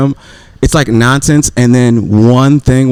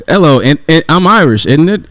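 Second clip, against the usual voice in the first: higher, badly faked Irish accent; attempted Irish accent; 5 semitones higher than usual. Man trying an Irish accent for his friends, badly faked. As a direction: fumble through a mock Irish accent. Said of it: "your best Irish accent".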